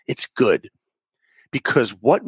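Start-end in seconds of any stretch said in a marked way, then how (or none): 0.1-0.7 whispered, unvoiced it's good. Shown as a demonstration.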